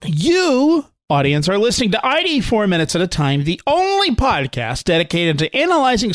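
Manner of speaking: grand show-opening patter with swooping high emphasis; podcast announcer intro. Acted. Host opening the podcast to the audience, showy announcer delivery. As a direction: announce the show with big punched key words.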